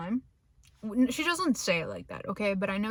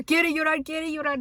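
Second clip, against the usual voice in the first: louder, higher teasing chant of quiere llorar; teasing dad; 6 semitones higher, 6 dB louder than usual. Retold or imitated. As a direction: chant it like a dad mocking his crying kid. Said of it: "My dad comes out of nowhere".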